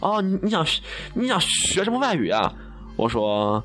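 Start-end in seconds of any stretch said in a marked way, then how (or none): 0.0-2.5 higher, politely inquiring; polite staffer. Retold or imitated. Staff member politely asking the applicant, higher voice. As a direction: ask nicely like a helpful receptionist. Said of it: "礼貌地跟我说".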